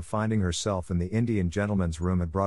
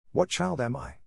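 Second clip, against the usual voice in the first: higher, slightly faltering question; 6 semitones higher than usual. A narrator's reading. Bewildered Sarah asking Mister Carmichael, faltering. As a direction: ask uncertainly, a touch bewildered. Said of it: "she faltered".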